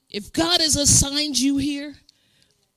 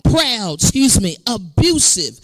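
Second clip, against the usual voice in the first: scripture reading; 3 dB louder, slower than usual. Real, not acted.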